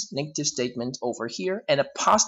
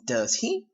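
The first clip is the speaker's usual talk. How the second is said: "Does he" lifted at the end; a genuine rising question; rising tag. Shown as a demonstration. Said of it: "if I raise my tone at the end saying".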